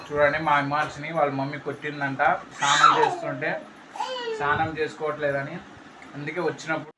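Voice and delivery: father playing with his little son. Real, not acted. Father talks to his small son.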